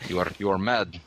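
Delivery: low mock-Russian voice; deadpan put-on Russian accent; bad Russian accent. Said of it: "bad Russian on you".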